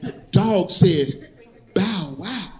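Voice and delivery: slow, soft pull-string toy voice; talking toy voice. Retold or imitated. Comedian imitating the pull-string toy, slow and soft. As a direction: mimic the toy's recorded voice slowly. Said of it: "Look at".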